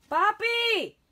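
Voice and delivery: panicked high shout; screaming at a spider. Real, not acted. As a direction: yell for help, frightened. Calls for help over spider.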